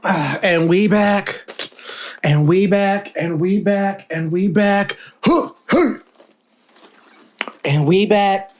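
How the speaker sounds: repeated hype show intro. Shown as a demonstration. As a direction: announce the comeback with swagger. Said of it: "This is the intro".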